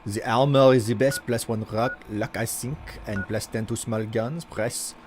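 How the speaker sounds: put-on a light, steady French accent while chatting. Streamer doing a redeemed accent for chat, lightly French. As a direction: keep a mild French accent going. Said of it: "I was told to do an accent".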